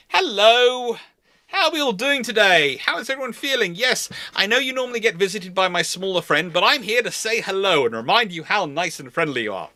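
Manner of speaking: a sugary-sweet patrol ship saying hello to troublemakers; cheery light cruiser. Retold or imitated. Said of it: "protected cruiser will wander up and go".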